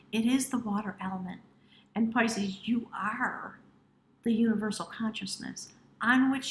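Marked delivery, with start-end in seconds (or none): 2.7-3.6 breathy whispered "you are". Real, not acted. Reader telling Pisces who they are, in a whisper.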